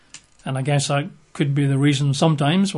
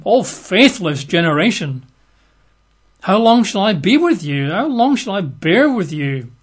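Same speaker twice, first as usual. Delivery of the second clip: slow, raised voice of a weary teacher; stern exasperated Jesus; 4 semitones higher than usual. Acted. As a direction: read it as an exasperated rebuke. Reads Jesus' words in scripture.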